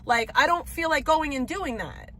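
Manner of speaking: irritated caller losing patience; exasperated complaint. Real, not acted. Arguing with Chipotle phone agent.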